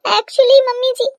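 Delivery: high, hesitant whimper; tearful. Acted. Crying bride starts confessing to mother-in-law, tearful. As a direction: begin timidly through tears.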